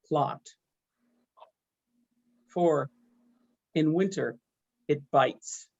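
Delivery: measured poetry reading with long pauses; poem reading. Acted. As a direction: read each phrase as its own line, letting it settle. Reads own poem aloud.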